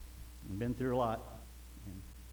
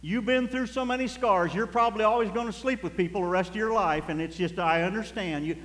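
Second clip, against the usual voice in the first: mock permissive; 4 semitones higher than usual. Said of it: "He didn't say".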